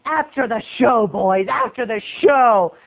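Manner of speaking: lightly voiced woman, drawing out the last words; a hint of mock come-on, slowing down; mock hooker. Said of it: "Sounded like a hooker".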